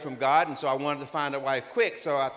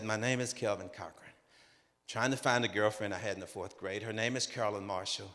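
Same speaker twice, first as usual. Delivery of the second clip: discouraged; 5 semitones lower, 7 dB quieter than usual. Retold or imitated. Dejected repeat call, enthusiasm gone.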